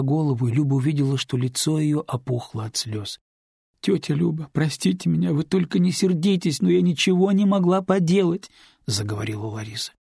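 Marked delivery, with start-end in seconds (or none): 3.8-8.5 put-on higher girl's voice, rising as she pleads; young neighbour pleading with Lyuba, higher voice; tearful girl pleading. A narrator's reading. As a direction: beg forgiveness, voice climbing. Larisa pleads.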